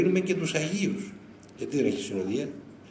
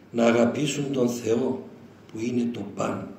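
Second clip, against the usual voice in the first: solemn quote; 3 semitones lower, slower than usual. Retold or imitated. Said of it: "την αναφέρει μέσα και λέει".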